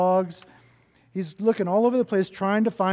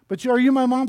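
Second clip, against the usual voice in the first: high and louder little bird plea; hopeful baby bird; 5 semitones higher, 5 dB louder, faster than usual. Acted. Baby bird asking the snort, high and hopeful.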